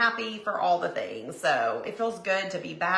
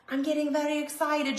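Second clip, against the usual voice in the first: said aloud, brighter and higher; excited; 5 semitones higher than usual. Real, not acted. To viewers, the same line now aloud and bright. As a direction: let the excitement out.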